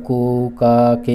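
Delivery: drawn-out cooing syllables; baby cooing demo. Shown as a demonstration. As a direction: stretch each coo like a demonstration. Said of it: "इस तरह से". (बच्चे के कूकने की नकल, खींचकर)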